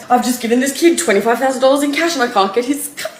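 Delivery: pleading as if bawling, half played for laughs; imitating a distraught phone call; retold tearful plea. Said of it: "I'm bawling my eyes out".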